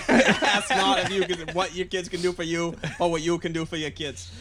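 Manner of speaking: John F. Kennedy. Retold or imitated. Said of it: "like, John Kennedy now".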